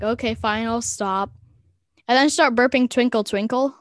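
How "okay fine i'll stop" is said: mildly grudging surrender; mock resignation. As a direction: give in with a touch of a sigh. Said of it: "I sigh and I'm like".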